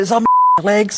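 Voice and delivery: high, laughing through the words; can't keep a straight face. Real, not acted. Victim answering his mate, laughing high.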